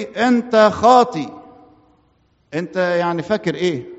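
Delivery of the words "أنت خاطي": higher, louder, slow accusing voice; devil's accusation. Retold or imitated. Devil accusing the sinner, slow, high and loud. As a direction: drag it out like a slow charge. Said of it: "طيب يقول لي".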